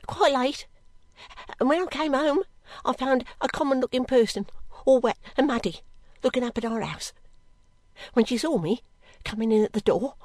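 a hint of a timid maid recounting events; halting, simple storytelling in short phrases; lightly voiced servant girl. Girl explaining her errand to the lady, mildly anxious.

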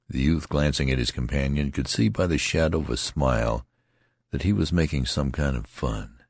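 usual speaking voice

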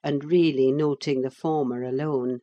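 normal talking voice

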